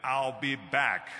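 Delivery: loud, very slow catchphrase delivery; Terminator. Acted. Actor quotes his famous movie line to audience, slow and loud. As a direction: deliver it slowly and forcefully, word by word. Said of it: "when I did Terminator".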